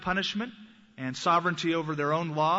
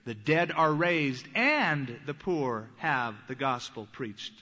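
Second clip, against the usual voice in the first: solemn slow Jesus; 3 semitones lower, slower than usual. Acted. Jesus answering John's messengers.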